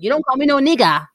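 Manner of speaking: word imitated in a German accent. Host quoting a player to her co-host, imitated German accent. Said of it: "That's how he says it".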